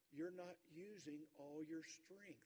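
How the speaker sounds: slow, level, looking him in the eye; father calmly correcting his son; calm and steady. Retold or imitated. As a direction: say it calmly and deliberately. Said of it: "looks him right in the eye".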